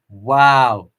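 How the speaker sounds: a loud, drawn-out wow; be bowled over; real astonished wow; amazed wow. Real, not acted. Reacting to a chat comment.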